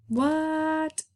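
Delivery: breathy high whispered "What?"; whispered gasp. Pretend. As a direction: gasp it out in amazed disbelief. Mock amazement at optical illusion.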